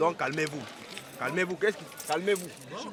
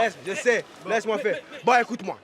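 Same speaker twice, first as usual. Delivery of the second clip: angry; 5 semitones higher, 4 dB louder than usual. Acted. Quarrel with customs officer.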